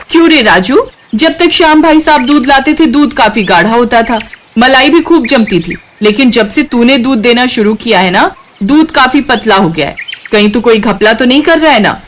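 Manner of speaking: corner him about the watery milk; suspicious customer. Acted. Customer confronting Raju about thin milk, suspicious and accusing.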